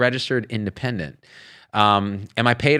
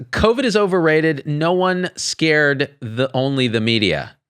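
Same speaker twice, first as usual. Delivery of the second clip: mock reading; 5 semitones higher, slower than usual. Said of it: "I had to read that five times".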